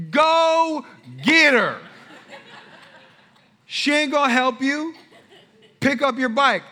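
loud, high, very slow stretched taunt; drawn-out dare. Retold or imitated. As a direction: drag out "Go get her" mockingly. Dad calling son's bluff.

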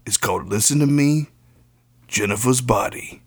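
lightly voiced gruff old ex-cop; a hint of a stern hitman giving orders; Mike Ehrmantraut impression. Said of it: "I can do an, a Mike Ehrmantraut impression".

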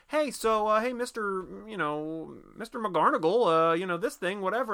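put-on high-pitched, hesitant teen fishing for a word; skateboarder kid. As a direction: play a kid awkwardly leading someone on. Skateboarder kids approach townspeople, acted.

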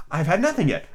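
reply with a touch of affront; understated indignation; offended. Acted. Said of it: "replied in an offended tone".

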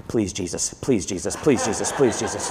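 soft, hushed pleading prayer; mock desperate prayer. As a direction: beg under your breath like a kid praying. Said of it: "I quote".

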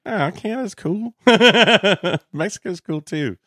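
high, laughing and teasing; laughing mock praise. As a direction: giggle through it.

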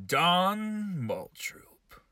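slow, hushed announcer whisper on the name; dramatic whispered reveal. Acted. Talk show host whispering his guest's name for drama.

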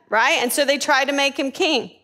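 ordinary talk

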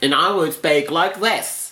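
laughing attempt at an Australian accent; mock Australian accent. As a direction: tease your co-host with a bad Australian accent. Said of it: "It went from bad Australian".

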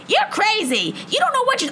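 mock yell, high and shrill-pitched at the woman leaving; hammed-up retold screaming from a stranger walking away; imitated screaming woman. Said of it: "screaming at me".

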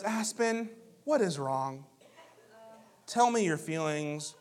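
righteous. Retold or imitated. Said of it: "most righteous person in the house".

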